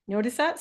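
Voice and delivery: "Notice that?" ending on a clear upward lift; question rise. Shown as a demonstration. Teacher to webinar students, showing a rising question tune. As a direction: let "that" climb like a real question. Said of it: "So when I'm done talking".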